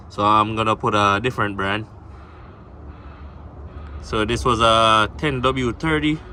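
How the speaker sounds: lying under a car. Real, not acted. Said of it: "so I'm under the car right now".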